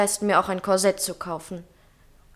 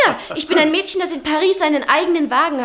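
laughing; 6 semitones higher, 6 dB louder, faster than usual. Acted. Sabine laughing mid-speech.

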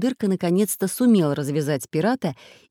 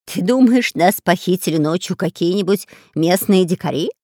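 a worried pirate asking his mate; pirate Bulbul voice; 5 dB louder than usual. Acted. Pirate asking partner about kidnappers, raised voice.

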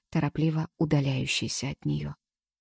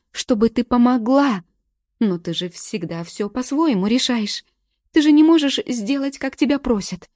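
loud, high, tearful screaming; shrieking in tears; 4 semitones higher, 7 dB louder than usual. A narrator's reading. Galka screaming at Morgen through tears, shrill. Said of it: "Галка уже визжала, не сдерживая слёз".

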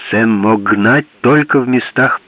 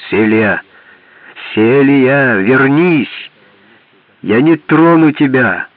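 calling out; 3 semitones higher, slower than usual. Acted. Man calling after her.

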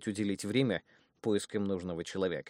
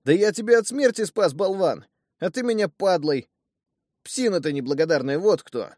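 furious, much higher and louder shouting; indignant yelling; 10 semitones higher, 10 dB louder than usual. Acted. Outraged thug yells at his brother, high and furious. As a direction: bellow it at the ungrateful fool. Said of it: "от возмущения даже вскочил на ноги".

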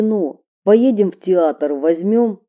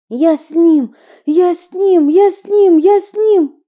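panicked shout; 9 semitones higher, 7 dB louder than usual. Acted. Running, panicked cry.

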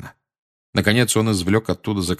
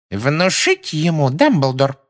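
stern witch; 7 semitones higher, 3 dB louder, slower than usual. A narrator's reading. Witch offers to enforce.

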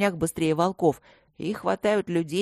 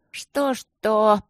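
higher, louder, slurred "Что-что?" with a tongue tripping over it; drunken grumble; 4 semitones higher, 3 dB louder than usual. A narrator's reading. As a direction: mumble the "Что-что?" thick with wine. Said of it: "заплетающимся языком буркнула Эбигейл".

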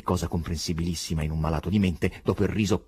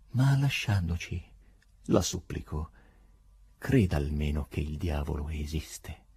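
imploring; 3 semitones lower than usual. Acted. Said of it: "disse implorante".

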